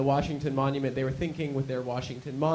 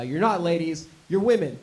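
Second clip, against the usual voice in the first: lightly raised rally repeat of "you're not ladies"; repeating into the mic; 4 dB louder than usual. Retold or imitated. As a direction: echo the heckler back to the crowd, a bit louder. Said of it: "so I repeat that into the microphone".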